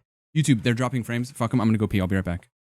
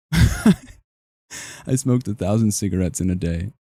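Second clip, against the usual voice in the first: mock French accent; 4 dB louder, much slower than usual. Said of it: "French Mister Beast be like".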